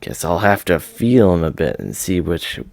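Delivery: brash and pleased with himself; a playboy cousin hitting on the maid; cocky Battler. Acted. Battler voiced, pervy teasing.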